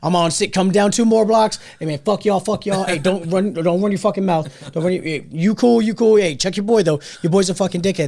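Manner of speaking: yelling on the phone. Retold or imitated. Yelling at frat boys, Uber.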